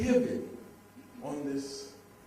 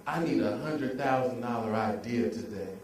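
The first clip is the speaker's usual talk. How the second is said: casual, matter-of-fact; 4 semitones lower than usual. Retold or imitated. Son imitating his father's casual money talk, offhand. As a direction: toss it off as routine. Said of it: "as if it was something on his to-do list".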